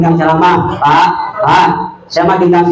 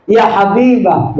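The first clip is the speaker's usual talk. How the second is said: gentle loving call; 3 semitones higher, slower than usual. Retold or imitated. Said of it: "Enak, Pak".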